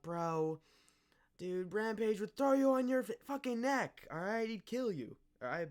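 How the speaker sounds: high, loud put-on voice, ranting; hammed-up fighter yelling a warning; mock Rampage threat. Imitating Rampage warning Holland, high and loud.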